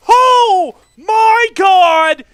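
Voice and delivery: screamed, voice cracks high; voice cracking. Real, not acted. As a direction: voice breaking mid-scream. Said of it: "holy voice crack".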